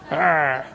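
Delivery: second, weaker try at a low wolf arr; half-hearted wolf growl. Shown as a demonstration. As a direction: growl again, a bit feebly. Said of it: "That's not very good".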